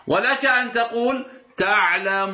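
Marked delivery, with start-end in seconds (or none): 1.6-2.3 تعلمون with the waw held six counts; تعلمون with a long six-beat waw; six-count length. Shown as a demonstration. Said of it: "هذه ست حركات".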